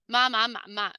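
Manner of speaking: ma, ma, ma, ma in Mandarin tones; each "ma" on its own Mandarin tone, as a teacher shows it; tone demonstration. Shown as a demonstration. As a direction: recite "ma" through the tones, first tone onward. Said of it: "the first tone".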